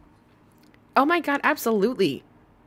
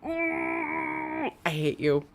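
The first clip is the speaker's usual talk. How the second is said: laughing; 7 semitones higher, 4 dB quieter, much slower than usual. Real, not acted. Laughing at friend's joke.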